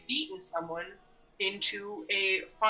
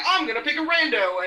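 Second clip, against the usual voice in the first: mocking character voice; 7 semitones higher, 8 dB louder than usual. Player voices bossy character.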